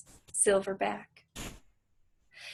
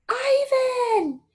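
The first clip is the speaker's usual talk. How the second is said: high, loud call across the zoo; yell; 5 dB louder than usual. Acted. Julia calling Ivan across the moat, loud yell. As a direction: shout his name to be heard far off. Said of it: "the girl yells".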